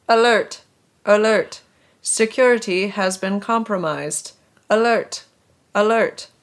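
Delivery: robotic announcement, loud; robotic alarm voice. Acted. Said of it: "a robotic female voice droned".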